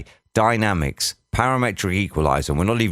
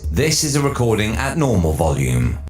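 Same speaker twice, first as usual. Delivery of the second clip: light reverb; 3 semitones higher than usual. Shown as a demonstration. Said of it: "just a touch".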